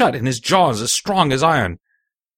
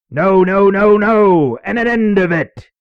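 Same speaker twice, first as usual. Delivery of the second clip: loud, high captain's refusal; heated, raised captain voice; crying out; 5 semitones higher, 4 dB louder, slower than usual. Acted. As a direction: cry it out, putting a stop to it. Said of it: "he cried once".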